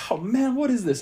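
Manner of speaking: high, mock girly voice; lightly voicing the blonde girl; girl at the bar. Retelling the girl at the bar, high mock girly voice.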